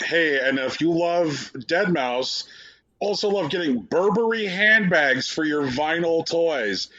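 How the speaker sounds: hammed-up cross-promotion voice; mock promo pitch. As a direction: parody of a keen presenter. Imitating showcase hosts' promo.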